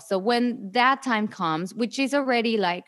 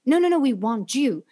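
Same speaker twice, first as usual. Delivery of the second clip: mock whisper. Mocking casting directors' reassurance.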